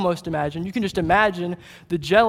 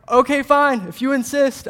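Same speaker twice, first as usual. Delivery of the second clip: higher-pitched mock concession; reluctant giving in; 5 semitones higher, 3 dB louder than usual. King Saul giving in to David's plan, mock-reluctant. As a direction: give in with playful exasperation.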